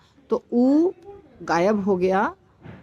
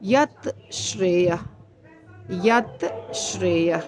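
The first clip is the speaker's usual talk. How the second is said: "यत श्रेयः" said slowly with a gap between the words; slow separated; 3 semitones lower, slower than usual. Shown as a demonstration. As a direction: keep "यत" and "श्रेयः" apart, slowly. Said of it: "इसीलिए हम क्या बोलेंगे".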